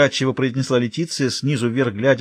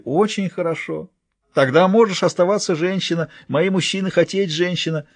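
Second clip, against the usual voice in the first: pleased giantess; 7 semitones higher than usual. Acted.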